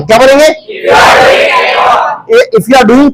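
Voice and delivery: projected prompts, pausing for the chorus; classroom drill call-out. Real, not acted. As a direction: call out each phrase for the class to repeat.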